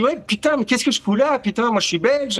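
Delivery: crâneur, voix haussée, indigné; faisant le grand. Retold or imitated. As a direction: joue le gros dur arrogant. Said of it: "Je fais un peu le, le grand". (jouer le grand, un peu plus haut)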